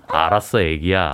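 deep soft lover voice; tender low reply. Pretend. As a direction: whisper it to your love. (낮고 다정한 연인 목소리)

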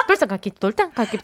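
teasing copy with slurred, tensed 똘쌍 깎기; vague mimicked pronunciation. Host warning the player, mocking muddled 똘쌍 깎기. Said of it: "이게 약간 애매하게 올리는 거".

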